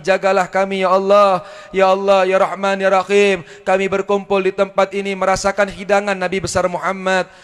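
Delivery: steady, imploring prayer voice with each ya Allah pressed out; fervent prayer. Acted. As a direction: plead with God on behalf of the crowd. Leads a prayer. (doa khusyuk memohon kepada Allah)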